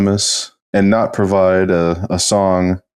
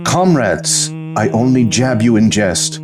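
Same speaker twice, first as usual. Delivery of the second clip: poem recital; 3 semitones higher than usual. Acted. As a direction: recite it like a solemn poet.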